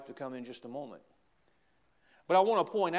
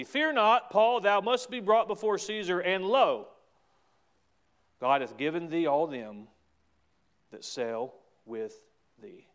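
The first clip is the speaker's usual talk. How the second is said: proclaiming angel; 3 semitones higher, 4 dB louder than usual. Acted. Angel's message quoted with force.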